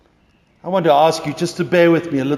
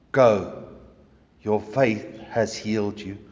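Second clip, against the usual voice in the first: a touch lower, gentle and kind; mellow voice; 4 semitones lower, 6 dB quieter than usual. Acted. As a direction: say it tenderly, as a gift. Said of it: "the most beautiful, mellow voice".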